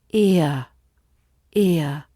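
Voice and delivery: "ear" gliding from short i to soft uh. Shown as a demonstration. Teacher shows learners the ear glide. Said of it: "glides to the soft uh".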